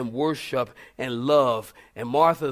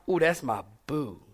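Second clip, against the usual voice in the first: mock sweet; 3 semitones lower than usual. Pet-name voice.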